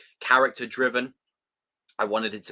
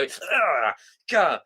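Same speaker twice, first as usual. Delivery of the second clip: acted-out cringing "ugh"; strangled groan of disgust; cringe reaction groan; 2 semitones higher than usual. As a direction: groan as if physically recoiling. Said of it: "you have a physical reaction".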